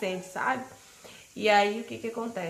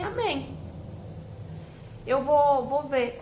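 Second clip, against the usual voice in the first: excited; 5 semitones higher, 4 dB louder, much slower than usual. Retold or imitated. Thrilled reply to friend's offer.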